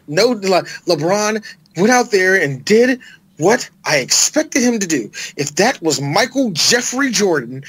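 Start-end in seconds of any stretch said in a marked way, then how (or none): 6.0-7.6 full name with the weight on "Jeffrey"; stress on Jeffrey. Real, not acted. Host comparing LeBron to Jordan, stress on "Jeffrey". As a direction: punch "Jeffrey" as the middle name. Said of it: "emphasis on Jeffrey".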